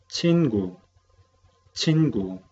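Chingu said clearly with a falling tone; teacher's model pronunciation. Shown as a demonstration. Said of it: "vamos a pronunciar las palabras nuevas". (profesora pronuncia chingu para repetir)

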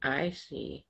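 put-on Jesus whispering back to the child; whispered. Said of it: "whispered Jesus".

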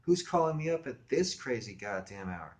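slow, indignant phone complaint; irritated woman. Acted. Woken woman scolds a late caller, slow and indignant. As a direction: draw out the outrage at being phoned. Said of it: "That sort of scared me".

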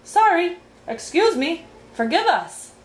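high, chirped string of apologies; apologizing in turn. A narrator's reading. Scolded guests to their king, apologizing one by one. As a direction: separate little apologies, each voiced afresh. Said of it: "they apologized in turn".

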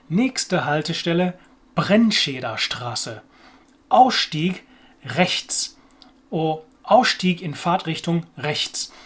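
lightly imitated tram announcer, slow and segmented; tram announcement. Learner recalling the announcement on the underground, lightly imitated tram announcer. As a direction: announce the stop in slow German, pausing between phrases. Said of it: "an announcement that tells you".

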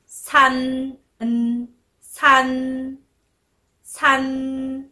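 さん ending in a long, level n; final n sound. Shown as a demonstration. Teacher adds N to さ, held final n. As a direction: say さん, tongue behind the teeth for the held n. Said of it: "Nをつけます".

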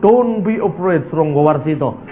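slow, foreign-sounding English line; mock American English. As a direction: play it like a Hollywood prophet. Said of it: "Dia ndak mungkin ngomong". (logat Amerika yang dibuat-buat)

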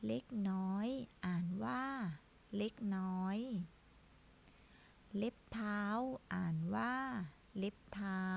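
slow, drawn-out word-by-word reading; reading drill. Shown as a demonstration. Teacher leading children in reading practice, slow and deliberate. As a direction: model each word slowly, holding the final syllable.

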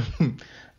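brief amused chuckle; short chuckle. Real, not acted. Crafter amused by their own impression, short chuckle. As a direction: chuckle at your own silliness.

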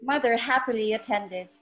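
measured poetry reading with long pauses between phrases; unhurried spoken-word recital of a personal poem. Acted. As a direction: recite it line by line, letting each phrase settle. Reads her poem aloud over music.

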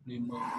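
"Limo" said softly, o as a schwa; soft "Limo" ending in a short uh; quiet model word. Shown as a demonstration. Tutor modelling how the word is pronounced. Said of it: "nó sẽ đọc là limo".

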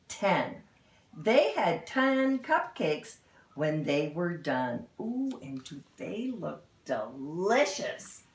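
lively storybook read-aloud; animated picture-book narration; reading to children. Acted. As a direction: read it like storytime for little kids.

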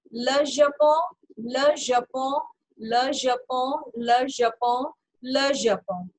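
drawn-out, evenly repeated "le Japon" for learners; French pronunciation drill. Shown as a demonstration. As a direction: repeat "le Japon" as luh zha-pon, nasal ending. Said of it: "एक बार हम practice कर लेते हैं". ("le Japon" को "ल झापों" की तरह दोहराएँ)

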